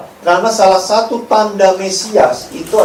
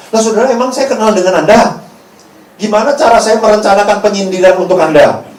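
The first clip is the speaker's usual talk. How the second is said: ordinary talk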